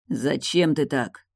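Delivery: slow, dejected voice; crestfallen. Acted. Morton hurt by Tilda's cruelty, slow dejected voice. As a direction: let the voice sink, hurt. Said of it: "упавшим голосом произнёс он".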